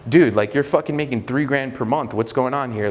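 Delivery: mildly condescending challenge. Shown as a demonstration. Coach mimicking a bad sales call to a client, condescending. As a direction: talk down to a client a little. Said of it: "like, condescending like that".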